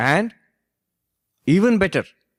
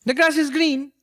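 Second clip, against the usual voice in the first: put-on high-pitched old teacher; 14 semitones higher, 4 dB louder than usual. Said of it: "He had a high-pitched voice".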